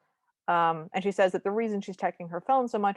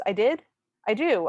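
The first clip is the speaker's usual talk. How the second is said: louder, startled question then hasty cover; playing along poorly; 3 semitones higher, 5 dB louder than usual. Bev bluffing to Luke on their date, playing along poorly. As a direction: blurt it, badly faking agreement. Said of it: "playing along extremely poorly".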